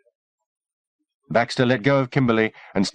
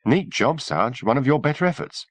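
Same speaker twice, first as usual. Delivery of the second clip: admiring; 6 semitones higher than usual. A narrator's reading. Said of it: "Feely said admiringly".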